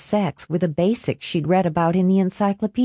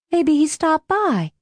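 worried; 10 semitones higher than usual. Acted. She fears being caught.

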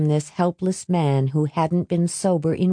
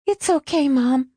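soothing; 10 semitones higher than usual. A narrator's reading. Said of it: "Alice kept saying as she patted down".

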